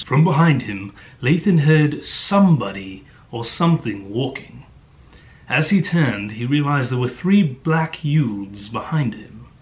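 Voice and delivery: imitation of a British audiobook narrator; British-accented story reading, hammed up; mock British narrator. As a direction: read it in a put-on British accent. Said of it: "has a strong British accent".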